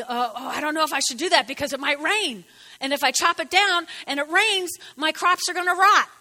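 hammed-up fret over the rain, building up; fretting farmer. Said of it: "gonna be".

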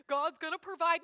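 mock the one who quit his job; sneering imitation of empty faith talk; mocking foolish faith. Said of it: "live in their basement with fifty barrels of rice".

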